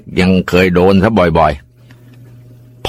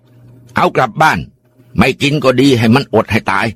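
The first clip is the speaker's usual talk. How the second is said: stern grandpa; 5 semitones higher than usual. Acted. Grandpa orders father, angry.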